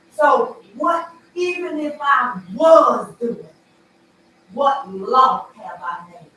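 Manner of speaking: slow, loud, furious demand; loud indignant challenge; angry shout. Real, not acted. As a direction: bark it out defending your son. Defending her son, angry outburst.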